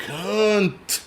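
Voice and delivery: "Cunt" stretched high, ending on a sharp T; emphatic final T. Retold or imitated. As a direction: draw out "Cunt" and release the T hard. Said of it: "It's the emphasis on the T".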